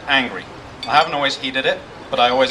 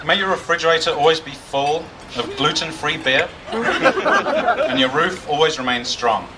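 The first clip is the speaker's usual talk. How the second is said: toast. Acted. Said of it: "This one's actually by me".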